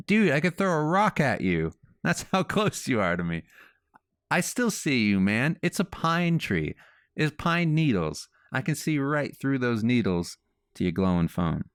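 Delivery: teasing him, you're not hidden at all; exasperated call-out. Retold or imitated. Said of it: "and I'm like".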